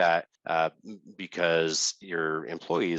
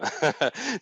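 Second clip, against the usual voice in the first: embarrassed laugh. Real, not acted. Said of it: "choking up on that one".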